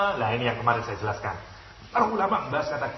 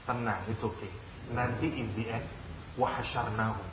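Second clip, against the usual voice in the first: menghibur; 3 semitones lower, 6 dB quieter than usual. Retold or imitated. Allah menghibur Nabi.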